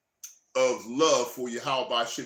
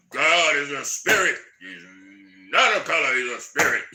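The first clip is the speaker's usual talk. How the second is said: mock shouting preacher; 7 dB louder than usual. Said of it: "He'd be like".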